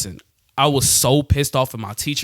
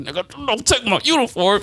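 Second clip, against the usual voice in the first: desperate yell; 10 semitones higher than usual. Retold or imitated. Tug of war over uniform.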